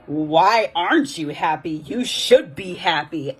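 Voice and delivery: slow, scolding mock-mother voice; mother with attitude. Mother reacting to her child's wish, lightly mocked attitude. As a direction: imitate a mother's indignant attitude. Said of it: "literally had an attitude".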